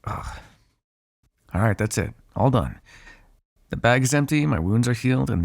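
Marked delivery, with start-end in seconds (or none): 0.0-0.4 low, quiet "ugh" of disgust; disgusted groan. Acted. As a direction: groan softly at a foul taste. Disgust at drinking bagged blood.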